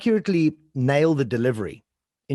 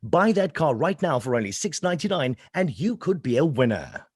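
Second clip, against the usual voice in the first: voiceover perfect cadence. Shown as a demonstration. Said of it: "show you a perfect cadence in voiceover".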